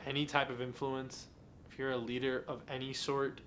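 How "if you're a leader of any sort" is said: talking through a yawn; words stretched by a yawn. Real, not acted. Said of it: "I'm yawning a lot".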